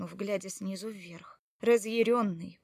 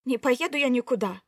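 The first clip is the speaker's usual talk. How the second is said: stubborn refusal; 3 semitones higher, 9 dB louder than usual. Acted. Wife refuses to go.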